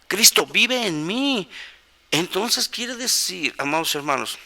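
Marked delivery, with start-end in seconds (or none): 0.1-1.5 "Cristo vive en mí" slow and raised in pitch; higher, drawn-out stress on "Cristo vive en mí"; emphatic correction. Real, not acted. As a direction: drive home "Cristo vive en mí", stretching the words. Preacher repeats verse against wrong reading.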